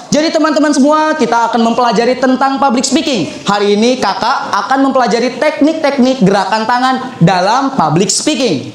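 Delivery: teacher demonstrating the circular gesture with a long phrase; flowing long phrasing. Shown as a demonstration. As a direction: let the sentence roll on with circling hands. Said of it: "Ini namanya gerakan sirkular".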